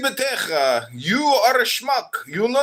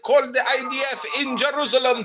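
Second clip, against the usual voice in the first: ranting shout. Acted. Caller shouting accusations.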